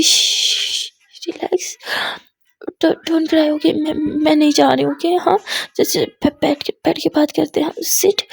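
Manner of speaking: calm her down gently, half-whispered; soothing hush. Acted. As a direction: girlfriend soothing her crying partner. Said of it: "वो तुरंत काजल के आंसू को पोंछती है".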